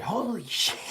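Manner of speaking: put-on high, childlike "Holy shit"; little girl voice. Dad retelling his daughter's excited outburst, high child voice. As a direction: say it like a thrilled little kid. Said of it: "she just said".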